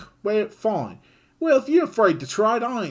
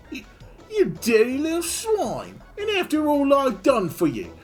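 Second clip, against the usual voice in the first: much higher, loud furious yell; furious Kid; 6 dB louder than usual. Acted. Kid yelling at the griffin, high furious yell. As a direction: scream betrayal at the traitor. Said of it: "red with anger".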